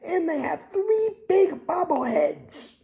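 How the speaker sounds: put-on joking Texas accent about the ballpark. Vlogger slipping into a mock Texas accent. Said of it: "talking that accent".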